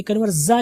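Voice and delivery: कन्वर्जा with a buzzing "za"; wrong z sound. Shown as a demonstration. Teacher flagging the mistake, कन्वर्जा with buzzing "z". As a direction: lean on the "z" in कन्वर्जा. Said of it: "की आवाज़ नहीं आएगी".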